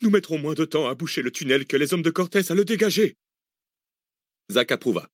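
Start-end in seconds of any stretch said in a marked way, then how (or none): 0.0-3.2 firm, raised voice; authoritative. Acted. Arsène overruling Cécile, authoritative. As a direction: settle it with authority. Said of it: "une intonation autoritaire".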